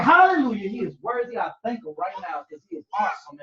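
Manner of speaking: morning praise, starting the day happy; joyful praise. Retold or imitated. Believer praising God at waking, joyful then calmer. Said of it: "you're like".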